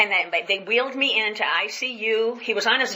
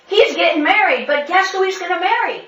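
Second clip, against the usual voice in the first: high, louder teasing question; teasing build-up; 9 semitones higher, 5 dB louder than usual. Retold or imitated. Pastor teasing the crowd before the punchline, high and loud. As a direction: dangle the punchline.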